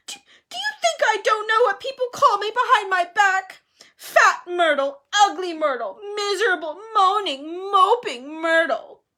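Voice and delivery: high, loud, self-pitying crying voice; tearful wail. A narrator's reading. Myrtle listing the names she's called, tearful. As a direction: wail out each name, dragging the last. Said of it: "tears now flooding down her face".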